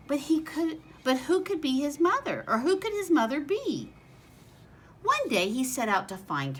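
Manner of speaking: lively storybook read-aloud voice; reading to children. A narrator's reading. Teacher reading a picture book to her class, bright storytelling voice.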